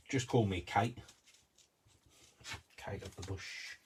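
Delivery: badly guessed singer's accent; a singer's accent. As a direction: put on a vague, made-up singer's accent. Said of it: "I don't know what accent this singer actually has".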